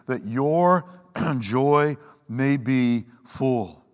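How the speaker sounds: deliberate Bible reading voice; scripture reading. Acted. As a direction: read the passage with solemn weight, letting lines land. Reads First John aloud.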